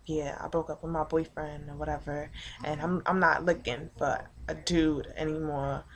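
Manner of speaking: low-key retold brush-off; offhand imitation of her. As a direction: toss it off quietly, like her excuse. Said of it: "She's like".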